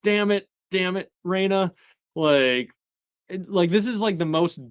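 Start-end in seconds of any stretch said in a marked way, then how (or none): 0.0-1.7 desperate heartbreak. Retold or imitated. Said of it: "you can just see his heartbreak".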